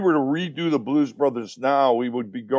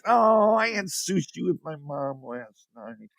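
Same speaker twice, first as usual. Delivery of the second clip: mimicking his wife; 3 semitones higher than usual. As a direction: play the wife, pitched up and light. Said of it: "She goes".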